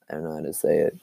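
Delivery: whispering to herself; whispered aside. Real, not acted. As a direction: breathe it out under her breath. Fumbles a word, aside.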